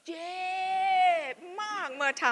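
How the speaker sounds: a rueful laugh on the words. Real, not acted. Laughing about the painful lesson.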